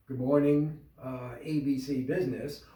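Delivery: flat, bored phone greeting; monotone. Shown as a demonstration. Receptionist answering the phone, monotone. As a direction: answer like you don't care. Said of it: "you can sound monotone".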